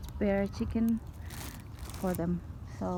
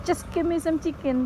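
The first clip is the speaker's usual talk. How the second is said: voicing the dog; 8 semitones higher than usual. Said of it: "that they want to say".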